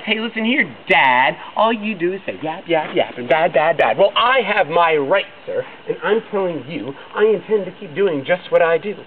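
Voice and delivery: loud, defiant yell; the Onceler yelling back at the Lorax about his rights. A narrator's reading. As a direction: shout him down, stubborn and proud. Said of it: "And I yelled at the Lorax".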